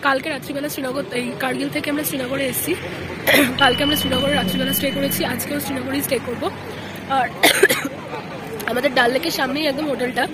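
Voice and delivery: hoarse, worn-out voice; talking through a hoarse throat. Real, not acted. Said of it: "আমার গলা পুরো বসে গেছে".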